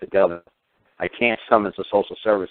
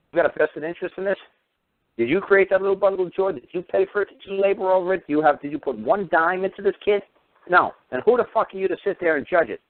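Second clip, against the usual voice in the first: much higher, scornful questioning; mock them with rising contempt; sarcastic mockery; 7 semitones higher than usual. Mocking imagined official.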